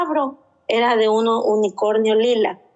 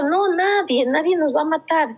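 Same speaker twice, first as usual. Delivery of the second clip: higher, gentle hushing reassurance; reassuring mother; 5 semitones higher than usual. Retold or imitated. Mother retells calming her daughter after the nightmare, soothing. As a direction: settle a panicked child.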